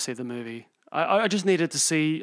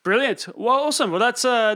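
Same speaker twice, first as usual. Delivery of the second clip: excited; 7 semitones higher, 7 dB louder than usual. Real, not acted. Enthusiastic reaction.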